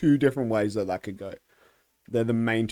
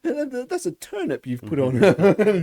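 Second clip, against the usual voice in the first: laughing mob voice; 8 semitones higher, 5 dB louder than usual. Pretend. Monty Python scene.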